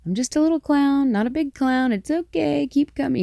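high, giggly sinister sing-song clown; creepy clown voice. Retold or imitated. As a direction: coo it like a creepy little clown. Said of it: "talking in this silly, creepy clown voice".

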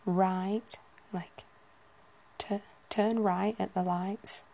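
put-on a Yorkshire accent, the i dragged out; Yorkshire voice stretching right. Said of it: "a kind of Yorkshire".

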